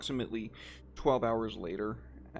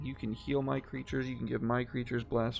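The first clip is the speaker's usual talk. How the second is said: put-on e-girl cat voice; 2 semitones higher than usual. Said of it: "making you do an e-girl cat voice".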